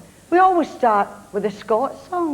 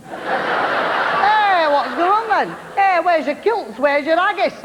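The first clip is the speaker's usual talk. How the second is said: English bragger; 4 semitones higher, slower than usual. Retold or imitated. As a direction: ham up a brash Englishman. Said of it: "Those type the Scots love".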